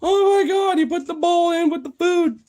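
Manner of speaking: high, loud squeal of laughter; real laughing disbelief. Real, not acted. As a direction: squeal it helplessly through laughter. Cracking up at dog's antics.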